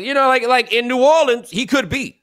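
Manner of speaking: high laughing words breaking up; laughing aside. Real, not acted. Host joking about the coach, laughing through it.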